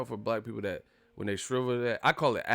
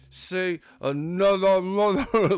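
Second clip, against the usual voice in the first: high, loud, drawn-out mock snarl; 8 semitones higher, 6 dB louder, much slower than usual. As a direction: snarl it slowly like a Rottweiler. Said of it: "that fucking snarl mouth ass".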